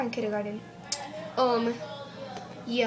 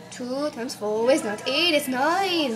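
mock-exasperated teacher, getting louder; exasperated correction; 3 dB louder than usual. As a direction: correct the class with building impatience. Teacher correcting sum again.

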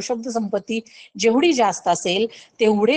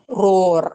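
lion roar; 3 semitones lower, 4 dB louder, much slower than usual. Shown as a demonstration. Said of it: "गर्जना करतो".

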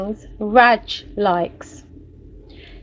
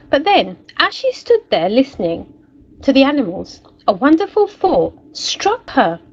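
lively storybook narration for a class; story reading. A narrator's reading. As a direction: read it like a picture book to children. Teacher reads story aloud.

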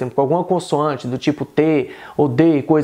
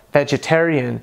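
American accent. Shown as a demonstration. Teacher giving the American version, American accent. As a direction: say "vegetarian" in American English. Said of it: "em inglês americano soa".

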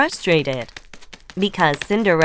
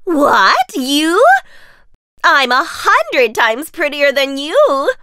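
loud, higher, slow scornful boast; indignant stepsister; 6 semitones higher, 5 dB louder, slower than usual. Acted. Stepsister arguing she is prettier, loud and scornful. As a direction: scoff at your sister. Sisters bickering.

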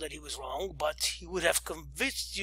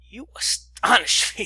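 astonished; 4 semitones higher, 5 dB louder than usual. Acted. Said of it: "said I".

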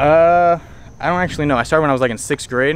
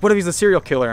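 mock worried mom; 7 semitones higher, 4 dB louder, faster than usual. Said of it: "She's like".

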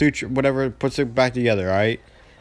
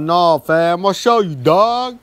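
insistent teacher; 5 semitones higher, 4 dB louder, slower than usual. Retold or imitated.

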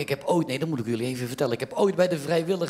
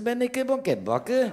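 high indignant woman's voice; mock wife retort; 10 semitones higher than usual. Comic voicing his wife's retort to him, high indignant. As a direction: throw his line back, pitched high.

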